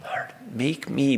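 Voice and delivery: slow, pleading cry to God; slow, high pleading prayer. Retold or imitated. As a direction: stretch each word out, begging to be changed. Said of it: "crying out".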